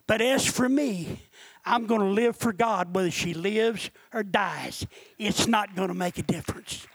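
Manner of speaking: low, measured declaration of resolve; out loud, conversational. Retold or imitated. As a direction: tell the devil firmly, low and unhurried. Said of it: "said it out loud just like I'm talking".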